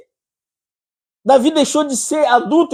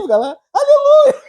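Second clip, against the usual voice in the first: shrill high hammed-up hallelujah through laughter; mock pious cry; 3 dB louder than usual. Preacher mocking the idolater to the congregation, high laughing hallelujah. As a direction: parody a devout worshipper, squealing.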